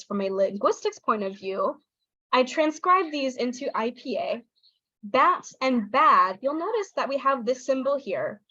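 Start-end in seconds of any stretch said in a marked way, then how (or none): 5.0-6.4 BAT short, BAD long; slow, BAT brief and BAD stretched; vowel length contrast. Shown as a demonstration. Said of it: "using these long vowels".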